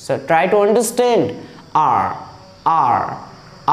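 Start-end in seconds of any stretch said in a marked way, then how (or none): 1.8-3.2 आर started on an open आ, lower; आर without any h; pron demo. Shown as a demonstration. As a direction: open आर on the vowel alone. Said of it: "आ से pronunciation हो रहा है".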